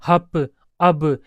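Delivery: slow, separated "मम, हप, अब"; two-sound word examples. Shown as a demonstration. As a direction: give each short word "मम, हप, अब" on its own, slowly. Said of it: "जिसमें दो साउंड हो".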